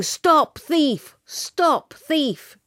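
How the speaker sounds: high, loud cry with falling pitch; shouting. A narrator's reading. Greengrocer grabbing a child who stole apples, shouting the alarm.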